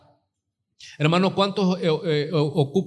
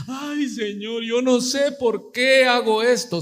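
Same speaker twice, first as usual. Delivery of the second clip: mock crying; 5 semitones higher, slower than usual. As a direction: imitate a tearful sinner, stretched and pitched up. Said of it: "están comiendo pecado y están llorando". (lamento llorón fingido, agudo y suave)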